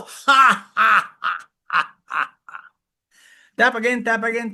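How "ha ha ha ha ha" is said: hearty ha ha laugh from the chest; loud laughing. Shown as a demonstration. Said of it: "On your chest and you go".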